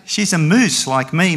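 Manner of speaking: high, loud storybook yell. A narrator's reading. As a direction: yell it as a stubborn moose. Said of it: "Morris yelled".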